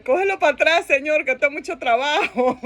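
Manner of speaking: mildly whiny, comic plea; mock crying complaint.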